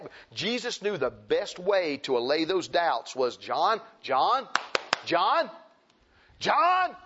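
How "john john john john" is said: calling urgently, building to a shout; rising calls of a name. Acted. Preacher voicing Jesus calling John.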